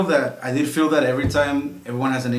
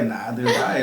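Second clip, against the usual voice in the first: laughing; 2 semitones lower, slower than usual. Retold or imitated. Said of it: "but it's like".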